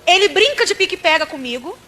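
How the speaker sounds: very slow, each word weighed; slow emphatic telling. Acted. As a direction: drag it out to let it sink in. Pregadora enfatiza as brincadeiras do menino. (bem devagar e enfático)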